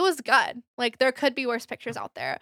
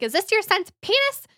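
mom confronting; 9 semitones higher, 5 dB louder than usual. Retold or imitated. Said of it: "and she's like".

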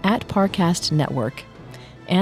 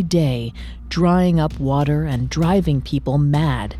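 story narration. A narrator's reading. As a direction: narrate like an ancient legend. Dramatic myth narration opening.

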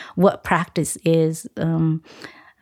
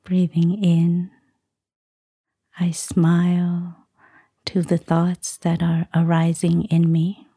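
guided meditation. Acted. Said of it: "give us a short guided meditation".

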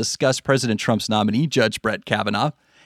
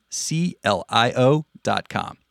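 spelled out slowly; slower than usual. Shown as a demonstration. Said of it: "spelling out C L I O".

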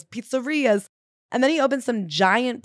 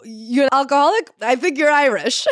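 hammed-up higher, louder doctor voice; doctor waving off an alcoholic with a joke; mock old doctor; 5 semitones higher, 5 dB louder than usual. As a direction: play a blustering old-timey doctor. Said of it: "They used to go".

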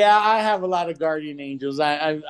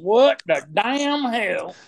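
slow southern drawl; much slower than usual. Pretend. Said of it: "southern drawl accent".

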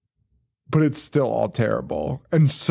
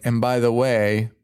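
mock reveal; 3 semitones lower, slower than usual. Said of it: "they're just like".

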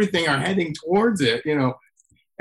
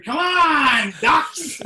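put-on high, childish sing-out; five-year-old's call; 10 semitones higher, much slower than usual. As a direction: call out like a little kid. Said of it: "sounds like a five-year-old".

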